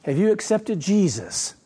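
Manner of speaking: a lighter second go at the sugary evangelist; mock the pious question again, mildly; syrupy evangelist voice. Preacher repeating the evangelist's question, mild mock. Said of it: "That's how they say it".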